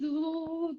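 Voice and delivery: high, soft, drawn-out trembling noise; imitated trembling. Friend retells Mauro trembling in meditation, imitated shaking noise. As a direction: mimic his shaking with a long "tuuu". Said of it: "de repente estaba temblando, así".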